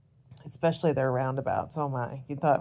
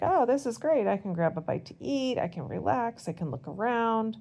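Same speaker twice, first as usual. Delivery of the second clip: excited; 6 semitones higher than usual. Retold or imitated. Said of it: "And I was like".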